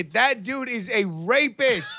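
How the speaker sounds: slow, pointed loud call-out; loud accusation. Acted. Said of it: "point loudly and just say".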